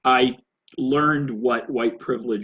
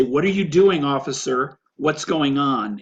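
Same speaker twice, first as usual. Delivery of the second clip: confronting the officer; 2 semitones higher, 4 dB louder than usual. Retold or imitated. Bystander speaking up to police officer, raised challenging voice. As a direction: call out a challenge, pitched up then easing. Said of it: "And I had to say".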